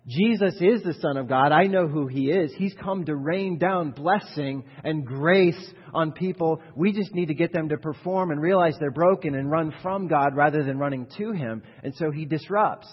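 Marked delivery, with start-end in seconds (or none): 0.1-11.6 demon's voice. Acted. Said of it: "the demon's thinking".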